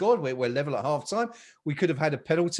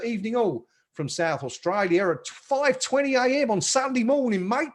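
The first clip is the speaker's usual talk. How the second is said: a hammed-up Australian accent, pitched higher and louder; bad Australian accent; 7 semitones higher, 4 dB louder than usual. Host reads out an Australian viewer's greeting in a mock Australian accent. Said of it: "That's the worst Australian accent you've ever heard".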